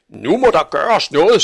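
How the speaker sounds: high, loud insistence; angry demand. A narrator's reading. Angry butcher demands action. (vredt og højt krav)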